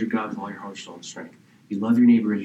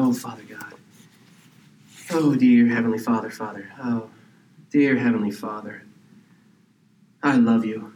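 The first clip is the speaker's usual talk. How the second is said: showy prayer; 2 semitones lower than usual. Retold or imitated. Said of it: "you go on this long, flowery thing".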